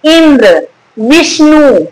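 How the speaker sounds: "इंद्र, विष्णु" with weight on इ and वि, falling after; stress on first syllable. Shown as a demonstration. Teacher giving examples of the rule, stressed "इंद्र, विष्णु". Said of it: "उसके पहले वाले वर्ण पर अक्सर बलाघात होगा".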